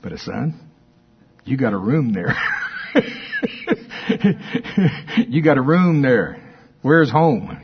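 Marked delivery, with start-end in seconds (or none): 1.4-7.6 excited. Real, not acted. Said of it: "I'm excited about that".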